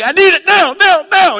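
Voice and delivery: put-on high, loud whining child demand; preacher imitating his little son demanding something now, high and loud; four-year-old. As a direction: whine like an impatient toddler. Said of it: "my little four-year-old".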